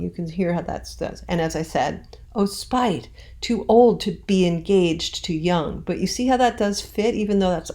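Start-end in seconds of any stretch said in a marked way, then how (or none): 2.3-5.8 "Oh, spite, too old to be engaged too young" with the beat kept but less exaggerated; lighter scansion. Shown as a demonstration. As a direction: keep the meter, ease off the push. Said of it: "I'm not saying it in the same exaggerated way".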